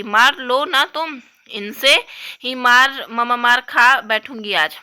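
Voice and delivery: slow, drawn-out tearful dare; a child daring her sister, tearful and slow; defiant crying. Acted. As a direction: stretch the words out through tears.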